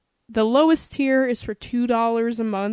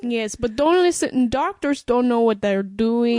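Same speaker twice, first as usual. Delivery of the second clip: put-on French accent; 4 dB louder than usual. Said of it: "French accent I could do".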